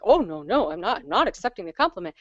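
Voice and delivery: mock modest protest with swooping pitch; imitated mom. Mom refusing a compliment, imitated swooping protest. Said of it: "she'd be like".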